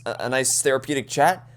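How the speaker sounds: ordinary talk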